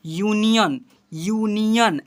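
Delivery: यूनियन slow, opening on a clear "yoo"; u read as yu. Shown as a demonstration. Teacher shows pupils how it is read, yu sound. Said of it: "ऐसे पढ़ते हैं".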